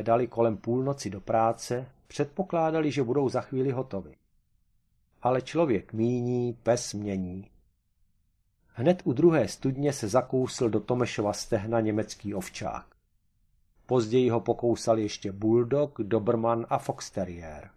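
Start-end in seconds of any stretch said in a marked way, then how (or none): none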